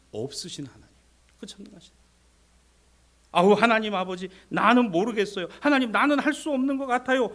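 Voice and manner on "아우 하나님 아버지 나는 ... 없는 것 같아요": loud plea climbing in pitch; acted pleading prayer. Believer admitting helplessness to Father God, loud acted plea.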